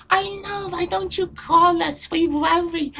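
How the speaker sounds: very high, squeaky Jewish mother; Jewish accent. Shown as a demonstration. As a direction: chime in as a worried Jewish parent in falsetto. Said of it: "so there's Jewish".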